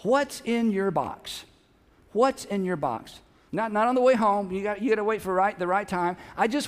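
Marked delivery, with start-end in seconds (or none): 0.0-1.4 slow asking. Shown as a demonstration. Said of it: "I want you to ask them". 2.1-3.2 slow asking, repeated. Shown as a demonstration. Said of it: "I want you to ask them".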